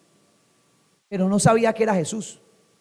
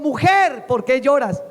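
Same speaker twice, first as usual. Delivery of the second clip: raised preaching voice; emphatic scripture reading; 4 semitones higher, slower than usual. Acted. Preacher quotes Jesus to Mary, emphatic. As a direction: proclaim the verse to the congregation. Verse read out in preaching fervour.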